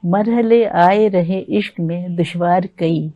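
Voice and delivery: slow, measured ghazal recital; ghazal recitation. Acted. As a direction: recite it like at a mushaira.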